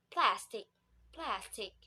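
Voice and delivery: "plastic" with a clear "a" as in cat and aspirated sounds; American-style "plastic"; American pronunciation. Shown as a demonstration. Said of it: "move in American accent".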